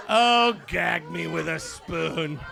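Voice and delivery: chuckling the phrase out slowly; slow, amused laughing delivery; laughing through words. Retold or imitated. Repeats phrase while laughing.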